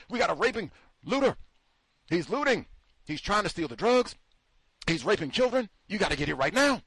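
mock urgent caller. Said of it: "the same person who called nine one one".

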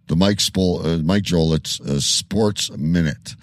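stumbling over a name with filler uhs; stuttering. Real, not acted. Host introducing the sports segment after surprise news, stuttering. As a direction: trip over the words, restarting haltingly. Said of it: "I'm stuttering because of that news".

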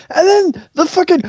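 high-pitched imitation of a screaming caller; mock screaming rant. Friend imitating the angry phone call, mock screaming. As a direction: pretend to lose it on the plumber. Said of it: "you screaming at the Roto-Rooter guy".

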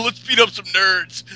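lightly hammed-up meathead bully; Ryback. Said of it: "he has this fucking jock laugh".

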